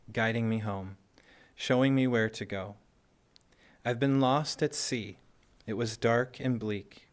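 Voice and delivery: measured poem reading, each short line set apart by a pause; poetry recitation. Acted. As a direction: recite it line by line, lifting the openings and letting the ends fall.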